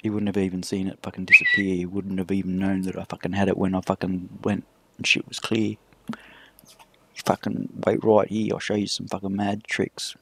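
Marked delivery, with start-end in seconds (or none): 6.1-8.5 slow unvoiced whisper. Real, not acted. Whispering to his mate before the prank, slow whisper. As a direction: hush it like a secret plan.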